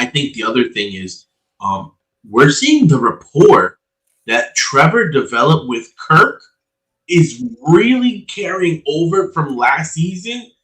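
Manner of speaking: muffled, roomy bad connection; sounding far off in an attic. Real, not acted. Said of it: "He sounds like he's in an attic".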